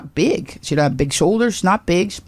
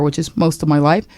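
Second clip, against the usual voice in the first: usual speaking voice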